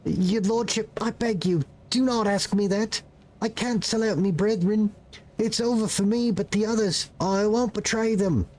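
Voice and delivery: put-on defiant but frightened boy; fearful peasant boy. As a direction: beg the lord not to ask, scared. Boy begs, swallows nervously.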